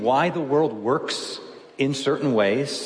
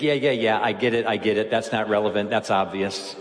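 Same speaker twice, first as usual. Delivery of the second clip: dismissive skimming reader; 3 semitones lower than usual. Acted. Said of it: "You'll move through it and think".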